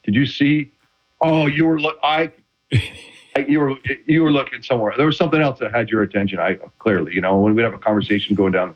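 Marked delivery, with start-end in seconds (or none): 0.0-6.4 mock-innocent questions, speeding up at the end; passive aggressive. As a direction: tease the referee as if genuinely puzzled. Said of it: "extremely passive aggressively".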